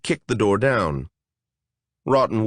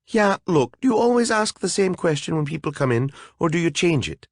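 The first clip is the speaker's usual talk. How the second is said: higher, rushed fairy arguing; fast fairy; 7 semitones higher than usual. Acted. A fairy questioning the golem, quick and higher. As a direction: talk fast to outwit the monster.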